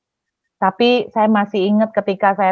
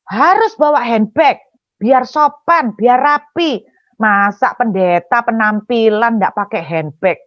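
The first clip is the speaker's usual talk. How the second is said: lightly mimicked nagging auntie, jumping up in pitch; mock indignant lecture with exaggerated stresses; imitated scolding auntie. Auntie scolds preacher for carrying no handbag, mock nagging. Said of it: "dia bilang begini".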